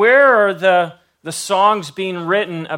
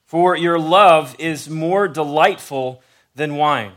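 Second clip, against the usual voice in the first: slow, tender reading of a love poem; scripture reading; slower than usual. Acted. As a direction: read it like a love poem, unhurried. Reads Song of Solomon aloud.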